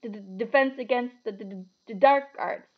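nervous stutter on the D of "defense" and "dark"; stammered mutter. A narrator's reading. Reluctant professor naming his subject, stammering. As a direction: stick on every D in "D-d-, defense". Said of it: "muttered Professor Quirrell".

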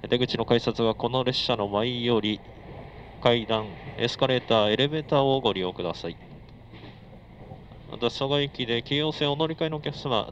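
sing-song conductor PA call; nasal clipped train conductor. Acted. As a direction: announce stops like a Japanese train conductor. Conductor live PA announcement.

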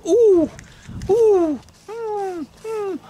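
excited cooing. Acted. Veronica admiring the hunky funky farmer, excited cooing. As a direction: coo and hum with mock excitement. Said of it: "I'm getting all excited".

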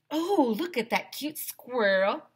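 high, slow cooing voice; cooing girls. Acted. The girls cooing at the squirrel, high and slow. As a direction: coo over the cute squirrel. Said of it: "all the girls yelled".

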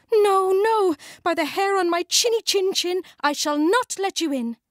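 high squeaky little pig voice; a small pig's high, defiant refusal. A narrator's reading.

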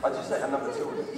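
quick breathy whisper; whispered aside. Real, not acted. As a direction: whisper it fast under the breath. Sudden unvoiced quick line.

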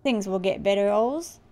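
mildly reassuring, attempted Australian accent; lightly faked Australian dad. Dad consoling son Oz, attempted Australian accent. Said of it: "I'm so bad at Australian accent".

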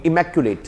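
teacher demonstrates "इमैक्युलेट" syllable by syllable; model pronunciation. Shown as a demonstration. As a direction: model "इमैक्युलेट" clearly with a falling close. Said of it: "एक word सुनना मेरे साथ".

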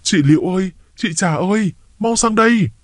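high frantic calling to the neighbours; panicked shout for help. Acted. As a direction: scream for them to come over now. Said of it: "Tôi hoảng hốt hét ầm lên".

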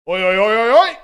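loud, high shouted oi; policeman shouting oi. Retold or imitated. Policeman yelling at the lads to stop. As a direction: call them out sharply, rising to a yell.

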